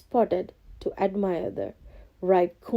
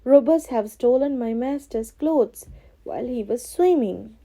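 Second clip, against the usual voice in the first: louder, urgent appeal; distressed plea; 5 semitones higher, 5 dB louder than usual. Acted. Cat tells the king of robbers, urgently. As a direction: sound upset to the king. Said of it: "he cried".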